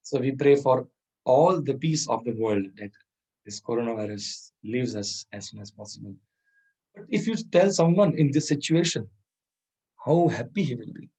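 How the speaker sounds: usual speaking voice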